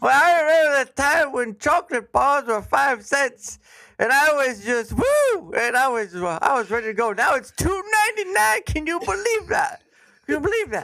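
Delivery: put-on high, old-timey old man voice. Reminiscing about old prices for a delighted listener, in an old timer voice. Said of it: "strangest old man voice, old timey, old timer voice".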